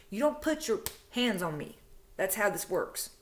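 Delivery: firm mock confrontation, each rule driven home; feisty telling-off. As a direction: lay down the law, retold with some bite. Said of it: "I was feisty".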